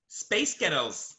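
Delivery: slow mispronunciation of a band's name in a Scottish accent. Shown as a demonstration. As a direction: make "Space Ghettos" sound like a band's name said in a Scottish accent. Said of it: "That's Scottish".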